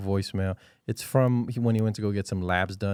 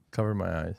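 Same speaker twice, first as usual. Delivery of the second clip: whisper; 4 semitones lower, 4 dB quieter than usual. Pretend. Whispered mock line.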